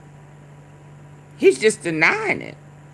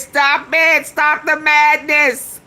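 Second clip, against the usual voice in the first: mock doctor; 5 semitones higher than usual. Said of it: "Doctor says".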